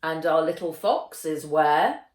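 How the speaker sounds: wry, pointed question; dry teasing. Acted. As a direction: needle her about the missing boy. Teacher scolds late student.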